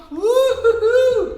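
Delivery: high, loud, drawn-out whoop; excited cheer. Real, not acted. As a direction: whoop with delight. Cheering daughter on.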